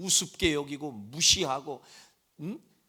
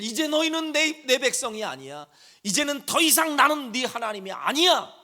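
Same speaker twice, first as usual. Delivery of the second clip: higher, louder divine rebuke; preacher voicing God's angry rejection of his people; God declaring angrily; 8 semitones higher, 5 dB louder than usual. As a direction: thunder it like an offended God. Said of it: "이렇게까지 얘기하셨어요".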